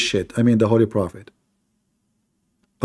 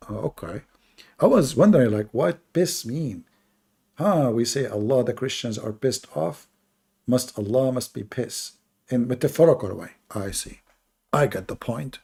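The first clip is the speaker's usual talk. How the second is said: sarcastic; 3 dB quieter than usual. Acted. Sarcastically pretending to understand.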